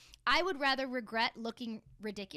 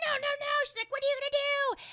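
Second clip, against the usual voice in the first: high, alarmed pleading; higher panicky protest; panicked friend; 13 semitones higher, 5 dB louder than usual. Retold or imitated. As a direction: imitate a friend begging you to stop. Friend panicking in retold story.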